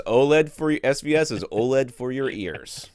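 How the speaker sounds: punchy ad slogan read. Pretend. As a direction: sell it like a radio jingle. Joking ad slogan for SVS.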